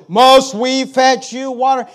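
slow, loud, mocking demand; slow loud mock boast; scornful Moses. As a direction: draw out each word in scorn. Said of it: "Moses quote again".

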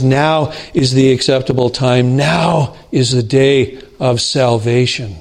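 each "Now" set off with firm emphasis; stress on "Now". Shown as a demonstration. Preacher quoting Paul on why not to wait, stress on "Now". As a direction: lean on "Now" at the head of each clause. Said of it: "emphasize the words that imply you need to do it now".

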